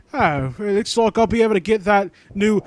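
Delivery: a hint of a menacing stranger; sinister stranger. Voicing the stranger who looms over wounded Lewis, lightly menacing.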